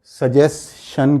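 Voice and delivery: "सजेशन" slowly as sa-jes, SHUN; slow split "सजेशन", shan ending; common pronunciation. Shown as a demonstration. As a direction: end "सजेशन" with sh. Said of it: "जिसको हम".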